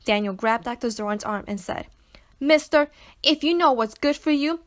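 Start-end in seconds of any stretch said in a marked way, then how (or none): 2.4-4.6 threatening. Acted. Daniel threatening the doctor.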